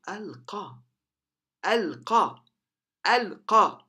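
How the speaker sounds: ألقى with a clear l, then q; sounded lam. Shown as a demonstration. Teacher contrasting qaf with sheen, lam kept. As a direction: say both L and Q in ألقى. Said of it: "But with qaf, see".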